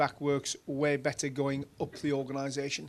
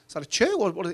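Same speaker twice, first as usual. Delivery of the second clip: puzzled question; 3 semitones higher, 4 dB louder than usual. Retold or imitated. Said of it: "And I went".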